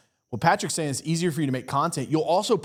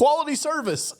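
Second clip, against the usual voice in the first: mocking laugh; 12 semitones higher than usual. Mocking cliché business talk.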